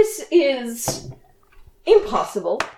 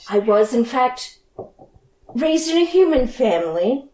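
sad. Acted. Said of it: "very sad, extremely sad".

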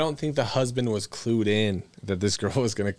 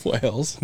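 "whales" leaned on through a laugh; stress on whales. Real, not acted. Joker landing a Tinder gag for friends, heavy stress on "whales". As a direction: lean hard on "whales". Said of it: "Emphasis on whale".

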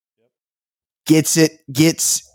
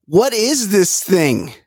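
slow, higher mock puzzlement; mock bafflement; 4 semitones higher, much slower than usual. Mimicking the contestant trying on his hat, mock bafflement. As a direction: draw it out, imitating a baffled man. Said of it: "he goes".

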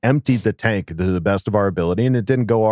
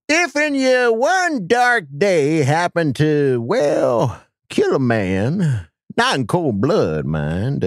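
creepy voice. Acted. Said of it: "that's a really creepy voice".

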